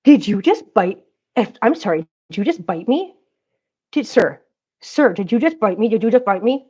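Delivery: indignant at the cat; mock outrage. Real, not acted. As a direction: act offended by the bite.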